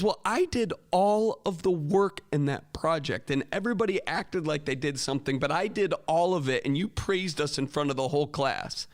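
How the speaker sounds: imitating an aggrieved student, stressing words; indignant complaint.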